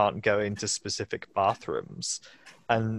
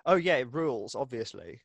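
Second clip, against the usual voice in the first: sarcastic. Pretend. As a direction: fake praise, dripping with irony. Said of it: "we were just sarcastically like".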